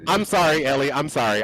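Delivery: a little tipsy, apologizing. Real, not acted. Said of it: "I might be a little bit tipsy already".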